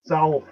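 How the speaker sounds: "South" as SOWLTH, like the l in wolf. Shown as a demonstration. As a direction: demonstrate "South" with a dark l inside. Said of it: "You hear the L?".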